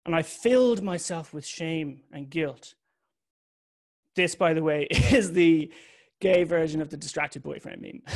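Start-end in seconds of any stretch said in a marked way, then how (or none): 4.9-8.2 laughing. Real, not acted. Laughing at own joke.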